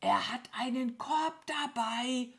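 tense stage whisper; urgent whisper. A narrator's reading. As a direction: whisper the news as a nervous crow. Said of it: "flüsterte die Krähe". (aufgeregt flüstern)

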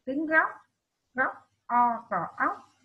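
góc broken into o and óc, each part said clearly; spelling out a syllable. Shown as a demonstration. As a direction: sound out góc piece by piece. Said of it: "các em đọc đúng".

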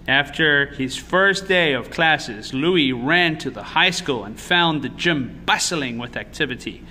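put-on measured storytelling to children; picture-book narrator; story narration. A narrator's reading. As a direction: read the story aloud with expressive emphasis.

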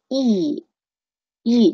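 "e" as a held ee, the h of "he" dropped; long E, no h. Shown as a demonstration. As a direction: draw out "e" with no h. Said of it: "或者直接读长元音e". (直接读长元音"e"，不带h)

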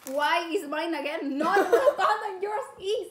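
laughing. Real, not acted. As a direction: giggle while protesting. Laughing about panda snack.

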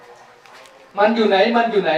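"มันอยู่ไหน" stretched out very slowly; very slow asking. Retold or imitated. Mo walks up asking where he went, very slow. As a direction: drag out each "มันอยู่ไหน" word by word. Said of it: "เดินมาบอกว่า".

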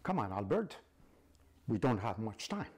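sinister angel of death; evil voice. Acted. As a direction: urge him on, menacing. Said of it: "the voice is like an evil voice".

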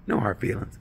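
"No hard feelings." whispered, falling; soft whispered "No hard feelings."; whispered answer. Retold or imitated. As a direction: breathe "No hard feelings." flatly, stress on "hard". Date answers under her breath.

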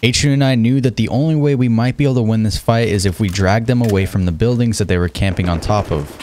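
calm recorded commentary voice; narration voiceover. A narrator's reading. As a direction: explain the fight like a voiceover. Voiceover narration over gameplay.

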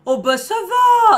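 high, loud, very slow mock cry; hammed-up sarcastic lament; sarcastic mock wail. Real, not acted. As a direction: wail it out in exaggerated outrage. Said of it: "Attends, parce que moi".

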